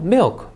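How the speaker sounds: "milk" as one single syllable; English "milk", no vowel after the k. Shown as a demonstration. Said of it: "이름절".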